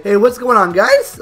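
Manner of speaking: upbeat greeting, voice leaping high on the last word; voice-cracking greeting. Shown as a demonstration. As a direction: demonstrate a near voice crack on an excited hello. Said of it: "sounds like I'm voice cracking".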